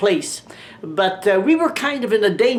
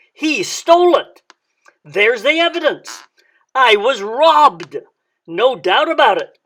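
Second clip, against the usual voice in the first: mock outrage; 2 semitones higher, 5 dB louder than usual. Mock outrage over coffee cup.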